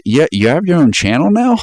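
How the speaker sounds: resentful sarcastic question; upset retort. Retold or imitated. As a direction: play the friend who feels betrayed. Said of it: "he's all upset about it".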